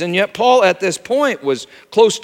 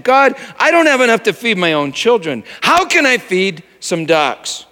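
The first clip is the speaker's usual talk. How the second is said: retold desperate prayer; anguished plea; 4 semitones higher than usual. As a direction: cry out to God in desperation. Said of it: "I cried out to God".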